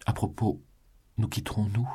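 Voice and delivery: a lighter question, asked with a smile; smiling. A narrator's reading. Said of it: "lui dit-elle en souriant". (en souriant, avec légèreté)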